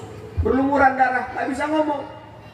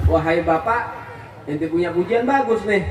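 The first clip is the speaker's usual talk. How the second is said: put-on Betawi-style young man; 2 semitones lower than usual. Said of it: "Ini bahasa kita".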